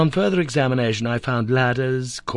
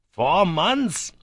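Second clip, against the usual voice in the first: much higher, gleeful cry; gleeful exclamation, raised high; 9 semitones higher than usual. A narrator's reading. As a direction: crow with delight. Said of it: "cried the sanguine professor in high glee".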